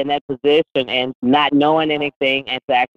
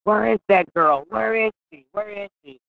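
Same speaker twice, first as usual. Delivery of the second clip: put-on higher, searching, calling out for the girl; imitating an excited boss hunting for her, voice up high; eager boss calling out; 8 semitones higher than usual. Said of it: "and Paulie's like".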